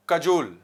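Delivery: "कजोल" with a short first vowel; "कजोल", first syllable short, weight on the second; correct pronunciation. Shown as a demonstration. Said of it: "इसे पढ़ेंगे कजोल".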